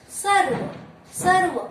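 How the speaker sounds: सर्व with a clear र before व, loud and high; r first. Shown as a demonstration. Teacher showing class सर्व with r heard first. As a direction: stretch the र in सर्व so it sounds first. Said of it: "पहले र का उच्चारण होगा".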